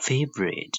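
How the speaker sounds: FAvorite, first syllable lifted; stress on FA. Shown as a demonstration. Teacher shows where the strike falls, stressed FA in Favorite. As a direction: put the weight on FA in Favorite. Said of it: "fa ဆိုပြီးမြင့်ပေးပါမယ်".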